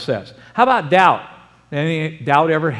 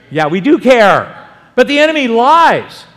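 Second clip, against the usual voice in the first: louder, higher preaching declaration; louder preacher's cry; 5 semitones higher, 6 dB louder than usual. Real, not acted. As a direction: proclaim it to the whole church.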